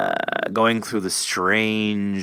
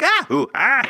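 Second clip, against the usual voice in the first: high, loud hammed-up yelps; mock screams; 6 dB louder than usual. Imitating a jump-scare actor, loud hammed-up yelps. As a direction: ham up horror screams.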